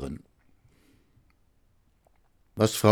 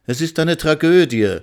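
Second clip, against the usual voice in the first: raised, higher-pitched dramatic outcry; exclaiming; 8 semitones higher, 5 dB louder than usual. A narrator's reading. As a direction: cry it out in dismay. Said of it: "rief Frau Miller aus". (laut und hoch ausgerufen)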